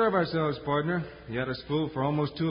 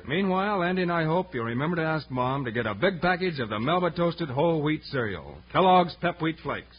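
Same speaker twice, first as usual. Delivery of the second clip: radio ad read; 4 dB louder than usual. Acted. Sponsor pitch to kids.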